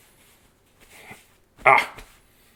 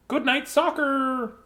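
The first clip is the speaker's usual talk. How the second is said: announcing the title again, higher; 10 semitones higher, 3 dB quieter, slower than usual. Shown as a demonstration. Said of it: "by request".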